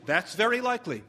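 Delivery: a light laugh through a wry answer; laughing reply. Acted. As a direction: chuckle it out, half-mocking. Sarcastic reply to mother.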